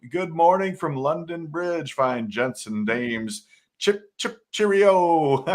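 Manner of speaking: mock British greeting. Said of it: "You gotta do that with the accent".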